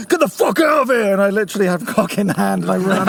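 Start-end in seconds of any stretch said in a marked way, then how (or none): 0.1-1.1 angry order. Retold or imitated. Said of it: "he went".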